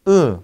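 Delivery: "으" hummed through the nose as a velar nasal. Shown as a demonstration. Lecturer shows the nasal after the stops, "으" as ng. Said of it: "그 다음에 비음".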